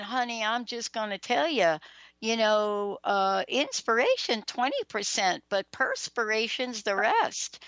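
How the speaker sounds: a touch of homespun Southern mom; Southern accent. Retold or imitated. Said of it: "with her Southern accent".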